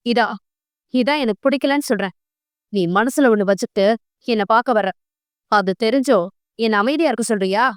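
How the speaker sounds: quick, understated angry questioning; a hint of temper, rushed; mild anger. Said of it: "கோபமாக கேட்டார்".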